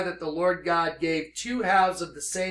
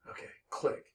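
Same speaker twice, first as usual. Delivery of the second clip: whispered hang-up; 13 dB quieter than usual. Retold or imitated. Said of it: "And she was like".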